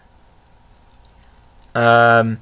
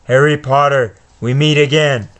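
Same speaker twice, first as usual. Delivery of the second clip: Voldemort. Acted. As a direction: tempt and threaten the boy. Reads Voldemort's speech.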